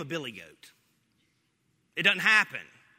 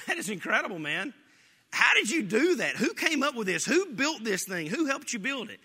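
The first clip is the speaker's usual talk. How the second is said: higher, louder rush of amazed questions; excited questions; 5 semitones higher, 4 dB louder than usual. Retold or imitated. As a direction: fire off questions in wonder. Friend amazed asking Newton.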